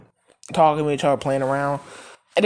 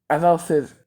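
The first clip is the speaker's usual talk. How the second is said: ordinary talk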